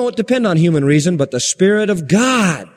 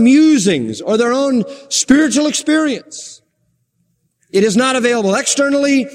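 insistent pulpit delivery, pitched up; emphatic preaching; 6 semitones higher than usual. Acted. Preacher on why philosophers cannot know God, emphatic preaching. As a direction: drive each point home from the pulpit. Preacher builds his argument forcefully.

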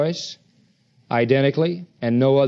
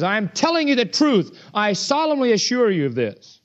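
raised, insistent assurance; emphatic; 4 semitones higher than usual. Retold or imitated. Preacher voicing Christ's solemn assurance, emphatic. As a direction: press the assurance home.

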